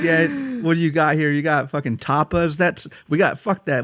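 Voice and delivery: scornful American tourist. Retold or imitated. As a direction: lightly imitate a trolling friend. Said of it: "He's like".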